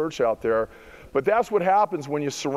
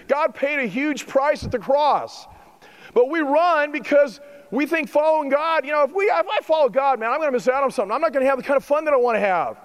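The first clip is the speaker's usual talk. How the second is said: raised pitch, driving sermon delivery; impassioned preaching; 8 semitones higher than usual. Real, not acted. Preacher urging congregation not to run from God, impassioned. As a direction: preach it with urgency.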